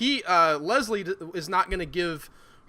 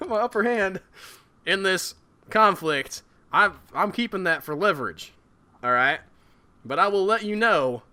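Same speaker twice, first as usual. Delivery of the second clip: put-on Southern accent. Leslie offering Herschel a joint task force, Southern accent. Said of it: "I can do a southern accent all, all day long".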